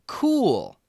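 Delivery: high, bright burst of delight; a kid thrilled by a frog; delighted cry. A narrator's reading. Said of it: "Kwame giggled".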